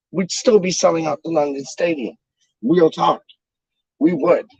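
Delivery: slushy sh for s; slurring from numb mouth. Real, not acted. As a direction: numb frozen mouth slur. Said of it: "sounds like I'm slurring a bit".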